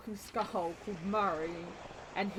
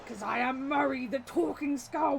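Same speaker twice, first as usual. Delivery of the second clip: Murray the skull voice; 4 semitones higher than usual. Retold or imitated. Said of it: "him sitting there going".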